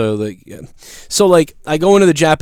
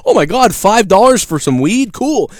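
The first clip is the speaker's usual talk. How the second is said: mock delighted; 7 semitones higher than usual. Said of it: "I was like".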